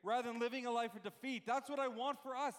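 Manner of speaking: excited, rising preacher's urgency. Real, not acted. Preacher urging the church to choose victory, excited. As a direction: urge them on with mounting energy. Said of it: "I'm getting excited".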